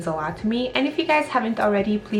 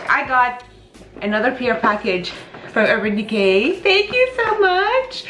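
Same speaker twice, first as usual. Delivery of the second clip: speaking with whitening strips. Real, not acted. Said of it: "if I'm speaking a little bit weird, it's because I'm whitening my teeth and I have some whitening strips on".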